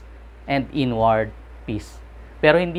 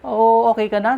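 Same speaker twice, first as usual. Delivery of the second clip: high, louder surprised question; an astonished psychiatrist checking on his patient; surprised doctor; 8 semitones higher, 4 dB louder than usual. Retold or imitated. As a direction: ask it amazed, like a stunned doctor. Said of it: "taka siya".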